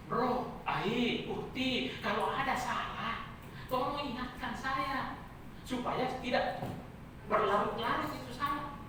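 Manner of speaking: softly spoken, measured appeal; polite request. Acted. Preacher asks listeners to point out his mistakes, gentle appeal. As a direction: ask gently for correction. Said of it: "tolong kasih tahu".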